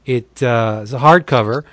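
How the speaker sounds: upbeat pitchman read, leaning on the deals; breezy promo voice with punchy price reveals. Acted. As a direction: sell the comics like a radio spot host. Monthly DCB sponsor spot.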